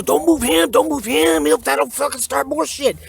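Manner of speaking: high, urgent pleading; panicked plea. Retold or imitated. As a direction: beg her to stop in a panic. Begging counselor not to move cellmate.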